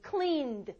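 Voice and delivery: cleaned slow, ending in a voiced d. Shown as a demonstration. Teacher showing ed after a voiced sound, cleaned ending on voiced d. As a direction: let the n and d of cleaned both ring. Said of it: "이렇게 울려요".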